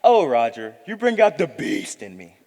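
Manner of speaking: playing a demure lady. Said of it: "pretend that you're Miss Sarah Huffington".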